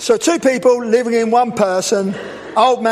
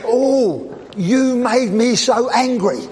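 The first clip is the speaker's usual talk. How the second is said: mock blaming; slower than usual. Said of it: "as long as you're work".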